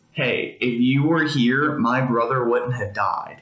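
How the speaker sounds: a hint of grief in her words, slowed down; lightly voiced Mary, pain under the reproach; pained plea. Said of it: "there was a lot of pain in that".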